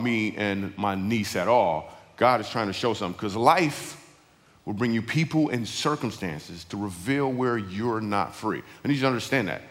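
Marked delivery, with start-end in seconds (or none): 3.4-8.6 slow, measured restatement; deliberate saying. Real, not acted. Preacher bringing the saying back to his story, slow and deliberate. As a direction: spell the lesson out slowly.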